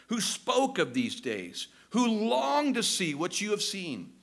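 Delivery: tearful, not angry. Acted. Preacher voicing Peter appealing to the Jews, tearful and tender. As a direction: plead gently, as if through tears. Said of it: "Peter is not angry. Again, I see tears in Peter's eyes".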